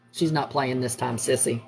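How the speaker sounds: confiding warning. Retold or imitated. Son warning his sister that mom is serious, hushed. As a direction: imitate a low, hushed warning.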